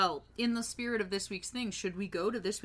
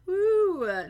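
excited cheer; 9 semitones higher, 10 dB louder than usual. Real, not acted. Cheering back.

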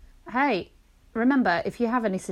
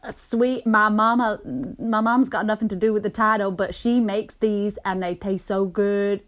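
put-on Southern accent. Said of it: "I don't know why I went fucking southern".

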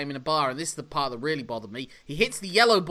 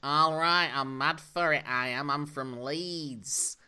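hammed-up Yorkshire accent, slowing to the end; a jokey stab at Yorkshire; mock Yorkshire accent, fading; 3 dB quieter, slower than usual. Shown as a demonstration. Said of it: "All right, do you Yorkshire".

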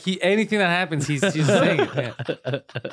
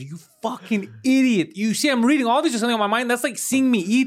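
exasperated retold outburst; mock angry rant; 8 semitones higher than usual. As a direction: lay into him, hammed up. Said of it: "I goes".

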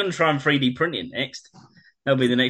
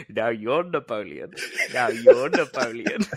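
imitating a nutter. Mocking Napoleon with hat.

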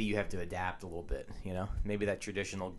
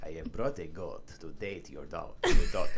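mock Spanish accent; 4 semitones lower than usual.

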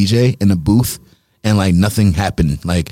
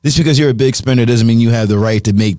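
mock stern DJ. DJ scolding a drunk guest.

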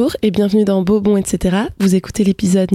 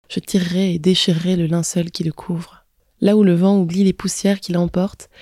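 poetic reading. Acted. Podcaster reading a text on a father's death, gentle poetic reading. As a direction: read it gently, as a poem of mourning. Reads her text on grief aloud.

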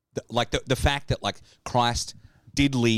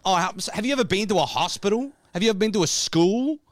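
incredulous; 9 semitones higher, 3 dB louder than usual. Pretend. Answering the skeptic, incredulous rise.

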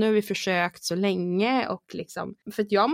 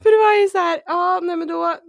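crying; 9 semitones higher, 4 dB louder than usual. Real, not acted. Crying heard, high.

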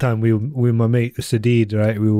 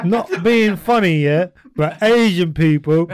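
a hint of an East London woman, slow, pitched up; mock East London voice; 7 semitones higher, slower than usual. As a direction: lightly imitate an old East Londoner. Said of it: "so they'll be like".

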